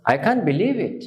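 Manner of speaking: I can't believe it said slowly with amazement; disbelief. Shown as a demonstration. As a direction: sound truly amazed. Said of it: "দেখুন আমি কিভাবে বলতেছি".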